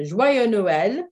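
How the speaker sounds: Joyeux Noël said slowly, lifting on Joyeux; slow model. Shown as a demonstration. Teacher modelling the greeting slowly for students. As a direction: draw out Joyeux Noël for learners. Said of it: "I'm gonna say this a few times".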